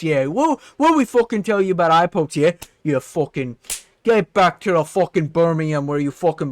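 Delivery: chewing out a teammate, half joking; training partner berated for an eye poke, mock angry; mock scolding rant. Aspinall voiced scolding his teammate.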